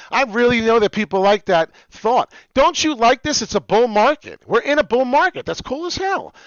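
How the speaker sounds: loud, high hype shouting; excited shouting. Real, not acted. Pumped up host yelling crypto hype to viewers. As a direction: yell it like the market is pumping.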